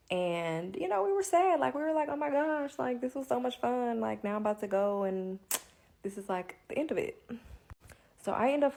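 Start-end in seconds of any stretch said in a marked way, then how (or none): 0.8-7.2 high, whiny mock sadness; mock sad wail. Friends leaving Alabama, high mock-sad whine. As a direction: pout it out, high and sorry.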